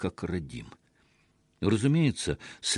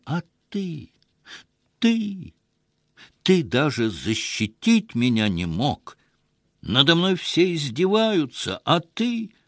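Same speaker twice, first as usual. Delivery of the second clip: high, choked accusing cry, breaking off; desperate outburst; 6 semitones higher than usual. A narrator's reading. Wife turns on her husband, crying accusations. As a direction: hurl it at him, near tears.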